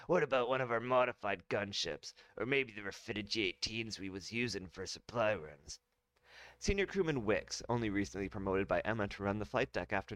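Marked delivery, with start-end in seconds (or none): 0.1-5.8 smooth confident general; clean retake. Acted. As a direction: ask it in one clean go. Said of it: "Let me try that line again".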